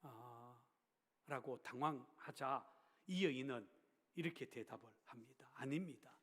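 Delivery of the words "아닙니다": quietly composed reply, softer; calm, matter-of-fact. Retold or imitated. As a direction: answer without any agitation. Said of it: "담담한 말투로".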